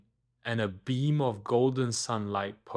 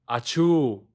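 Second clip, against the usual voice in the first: sneeze; 2 semitones higher, 6 dB louder than usual. Acted. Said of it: "she heard a tiny sneeze".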